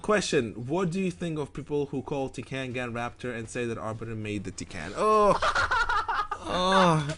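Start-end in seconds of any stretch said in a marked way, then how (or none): 5.0-7.1 bursting into high laughter. Real, not acted. Laughing at question.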